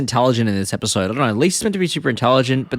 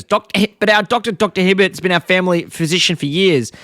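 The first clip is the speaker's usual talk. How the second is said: Marge; 5 semitones higher than usual. Retold or imitated. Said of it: "Marge is skeptical".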